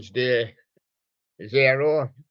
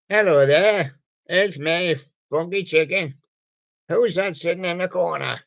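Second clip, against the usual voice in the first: chicken puppet voice; 4 semitones higher than usual. Acted. Puppet character introduces himself.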